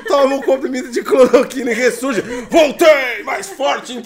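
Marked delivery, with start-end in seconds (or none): 2.5-4.0 triumphant shout. Retold or imitated. Bolsonaro resurges, comic.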